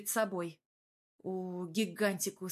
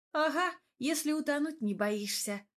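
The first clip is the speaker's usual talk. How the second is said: grumbling; 6 semitones higher than usual. Acted. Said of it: "проворчала я".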